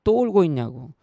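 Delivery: retold angry yell at a crying child, loud at the start; dad snapping at his child, loud then easing; angry father scolding his crying daughter. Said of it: "막 다짜고짜 화를 냈습니다".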